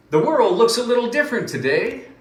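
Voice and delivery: a tiny mouse waking up to a new day; story mouse, high and bright; little mouse voice. Acted. Mouse's first line in the story.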